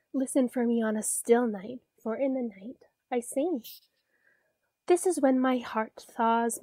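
gentle sing-song poem reading; reading to a toddler. A narrator's reading. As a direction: read it like a bedtime poem. Reads frog poem to child.

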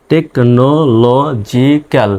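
টেকনোলজিক্যাল very slowly, syllable by syllable; broken into syllables. Shown as a demonstration. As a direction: say টেকনোলজিক্যাল in separate pieces with small gaps. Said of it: "এভাবে ভেঙে ভেঙে উচ্চারণ করবেন".

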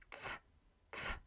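"ts" as a crisp t plus s; Polish c. Shown as a demonstration. Teacher showing how Polish c sounds. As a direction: snap out a short "ts". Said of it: "in Polish is pronounced as T S".

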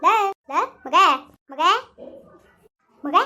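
worried mother calling her son. Acted. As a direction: call out searching for the boy.

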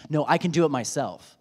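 lightly voiced insistent child; a touch of a defiant child. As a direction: play the small child who insists. His child speaking.

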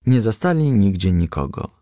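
ordinary delivery

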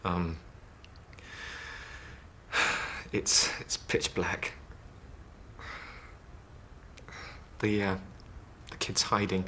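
low, hesitant, with long pauses; halting recall. Acted. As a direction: feel your way through a dark memory, stopping and starting. Patient haltingly recalls a dark memory.

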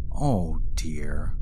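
breathy whisper, to himself; whispered dismay. Acted. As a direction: sigh it out under your breath. Urashima says to himself in dismay.

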